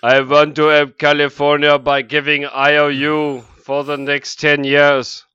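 loud Arnold governor voice; Schwarzenegger. Retold or imitated. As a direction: play the action star turned governor. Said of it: "Good deep cut Schwarzenegger's governor references".

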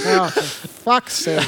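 slow, weary exasperated sigh of a line; mock annoyed defeat. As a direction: drag it out like you've given up. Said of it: "That look of just annoyed defeat".

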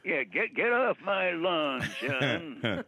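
put-on slow old man grumble; cranky old man voice. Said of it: "you get".

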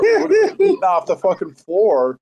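retelling own defense. Retold or imitated. Retelling how he defended the flour tortillas on the trip. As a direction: argue your case, a bit whiny. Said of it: "I was like".

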